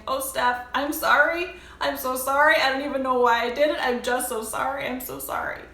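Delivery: high, loud mock sobbing apology; imitating crying girl. Girl who stole jeans apologizing to Steph, mock sobbing. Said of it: "She was crying uncontrollably".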